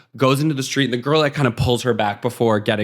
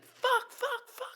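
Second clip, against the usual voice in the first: mock frustrated cursing; 13 dB quieter, much slower than usual. She finds her suitcase stolen.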